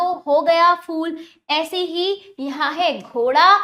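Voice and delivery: slow, deliberate classroom dictation; slow teaching voice. Shown as a demonstration. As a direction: spell each word out slowly for children. Teacher slowly builds picture words. (बच्चों को धीरे-धीरे समझाती शिक्षिका)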